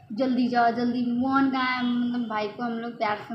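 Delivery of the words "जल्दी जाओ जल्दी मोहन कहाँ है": louder, hurried worried call; father on the phone urging the son to hurry; urgent father. Retold or imitated. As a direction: push them to hurry, worried. Father urgent over sick grandson.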